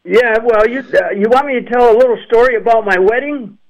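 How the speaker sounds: distant, roomy phone sound; talking from across the room on speaker; on speakerphone. Real, not acted. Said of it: "you sound like you're on speakerphone".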